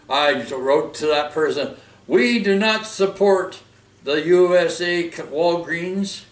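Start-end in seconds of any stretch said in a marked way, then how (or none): 2.1-6.2 raised, emphatic declaration, slow at first; firm refusal. Retold or imitated. Vlogger quotes own reply to Facebook commenter, firm declaration. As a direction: lay down the rule deliberately and loudly.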